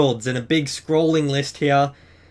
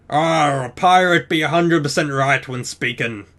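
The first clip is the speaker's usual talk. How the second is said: bad pirate accent. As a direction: attempt a cheesy pirate accent. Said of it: "probably the worst pirate accent".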